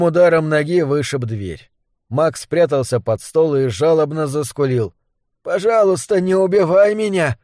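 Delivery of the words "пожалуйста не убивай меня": high, whimpering plea. Acted. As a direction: beg for your life, whimpering. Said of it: "хныкая попросил он".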